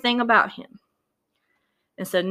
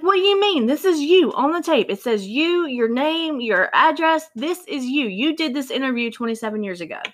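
higher, incredulous retold outrage; furious detectives; 4 semitones higher than usual. Detectives confronting Odell about the tape, indignant and pitched up. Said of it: "The detectives were furious".

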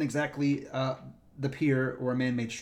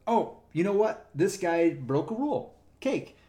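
higher, delighted gotcha; gleeful; 4 semitones higher than usual. Retold or imitated. Ranger finding a broken rule, gleeful and higher. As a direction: savour the easy win, pitch jumping up.

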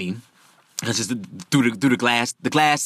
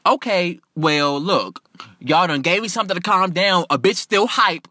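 indignant complaint, building higher; real indignant; 5 semitones higher than usual. Retold or imitated. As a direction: demand what you are owed, worked up at the end. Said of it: "I'm real indignant because".

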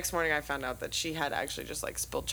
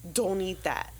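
mildly raised warning call; calling across room; 3 semitones higher, slower than usual. Retold or imitated. Roommate warning a girl from across the room, calling out. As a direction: call it over to someone, slightly lifted. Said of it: "from across the room".

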